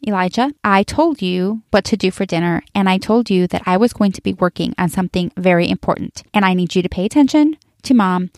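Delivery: retold measured, controlled reprimand; calm, contained telling-off. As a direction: keep it even and careful, like a mother holding back. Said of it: "I very calmly said".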